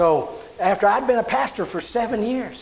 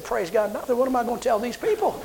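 laughing; 5 semitones higher, 6 dB quieter than usual. Retold or imitated.

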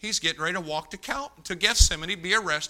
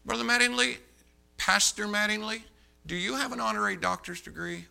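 raised-pitch, deliberate cross-examination; pointed questioning; 5 semitones higher than usual. Retold or imitated. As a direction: address him pointedly, pitching the name up. Acting his pointed cross-examination.

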